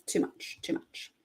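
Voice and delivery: soft repeated whisper. Real, not acted. Whispering about jurors cheering too much. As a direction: breathe it out twice, under your breath.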